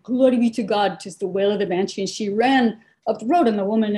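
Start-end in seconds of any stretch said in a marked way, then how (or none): 0.0-2.0 Irish brogue. Retold or imitated. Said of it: "with her brogue".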